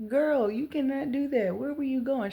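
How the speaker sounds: put-on mother scolding runaway toddler, loud and exasperated. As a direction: tell her off like a frustrated mom. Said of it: "And I'm like".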